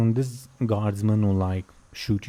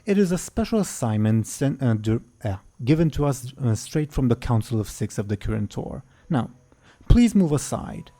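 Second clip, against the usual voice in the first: frustrated archmage; 3 semitones higher than usual. Acted. Archmage pushing past the stubborn guard, mildly frustrated and sharp. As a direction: lose patience and demand passage. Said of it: "frustrated and say".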